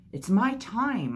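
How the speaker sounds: slow, high, loud yell. A narrator's reading. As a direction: bellow it, stretching every word. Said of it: "I yelled".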